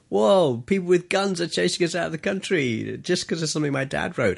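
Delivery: put-on a boy thrilled by danger; amazed kid. A child marvelling at his father's chase, excitedly.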